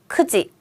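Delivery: KU in "크지" kept short; short vowel. Shown as a demonstration. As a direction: say "크지" with a short, quick first syllable, no lengthening. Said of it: "짧게 읽을게요".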